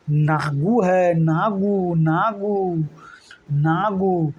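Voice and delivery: slow, fond drawn-out calling; teacher lovingly drawing out a nickname; affectionate nickname. Shown as a demonstration. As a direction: say the pet name lovingly. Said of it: "प्यार से उसको नागू कह रहा है".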